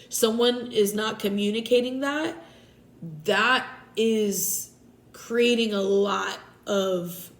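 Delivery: talking with a blocked nose; stuffy nose. Real, not acted. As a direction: speak through a stuffy, runny nose. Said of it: "my nose is running. I'm a little stuffy".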